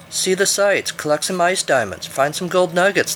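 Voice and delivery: high-pitched mimicry of cheery advisers; mocking quote. A narrator's reading. Climber mimicking the people who advised him, mocking.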